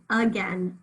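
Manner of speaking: again said "uh-gen"; schwa first sound. Shown as a demonstration. Teacher gives examples of A words, schwa first sound. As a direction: begin again with a clear uh. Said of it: "if we start a word with an A".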